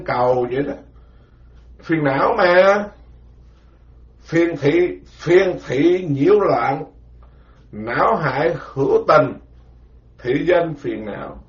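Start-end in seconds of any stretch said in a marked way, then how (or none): 4.2-11.4 chant-like teaching recitation; measured scripture recitation; slow recitation. Shown as a demonstration. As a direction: recite each word slowly for disciples to memorize. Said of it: "phải nhớ từng chữ vậy đó nghe".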